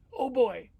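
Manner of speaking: put-on high, loud "oh boy"; delighted storybook outburst; excited mouse exclamation. Mouse exclaims over cake.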